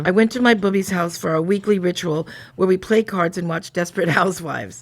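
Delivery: even, measured reading of a first-person tale; story narration. A narrator's reading. Telling of the weekly ritual at bubby's house, in a narrating voice. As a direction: narrate it like a diary entry.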